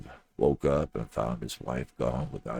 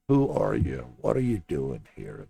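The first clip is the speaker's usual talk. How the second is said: louder, lightly voiced grumpy old man; 7 dB louder than usual. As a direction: challenge strangers at the door, gruffly. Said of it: "he sounded old and grumpy".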